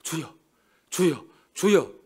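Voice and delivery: drawn-out mocking "주여"; slow mock cry of 주여; mock pleading. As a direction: parody an empty prayer, stretched slow. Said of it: "입만 열면 뭐예요?".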